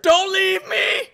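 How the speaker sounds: high, slow hammed-up plea; melodramatic plea. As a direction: beg like a soap opera. Pleading mock breakup scene.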